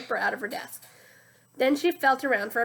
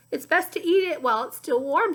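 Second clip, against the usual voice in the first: sloshy muddy voice; 4 semitones higher, 6 dB louder than usual. Acted. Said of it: "like two boots sloshing through the mud".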